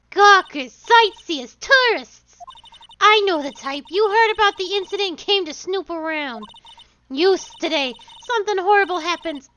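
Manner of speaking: put-on loud, bossy old woman. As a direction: shout like a pushy old lady guard. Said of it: "I have to do an old woman voice".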